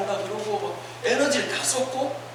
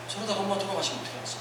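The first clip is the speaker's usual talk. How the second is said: quick, hushed worried muttering; much softer, hurried child's worry, acted; anxious inner thought; 2 semitones lower, 10 dB quieter, faster than usual. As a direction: think aloud softly and fast, fretting.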